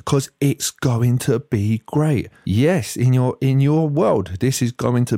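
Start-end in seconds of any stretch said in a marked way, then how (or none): 0.1-2.3 slow sarcastic "great" drawn out; mock enthusiastic. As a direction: sneer at their enthusiasm. Mocking their enthusiasm.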